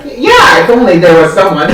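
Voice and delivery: high, loud mocking sigh of longing; hammed-up yearning reply; mock longing Lena. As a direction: tease her as hinting at love. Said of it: "Lena's like".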